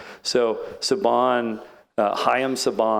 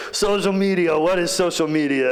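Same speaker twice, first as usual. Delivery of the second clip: scoffing; 7 semitones higher than usual. Retold or imitated. Billionaire scoffs at social media.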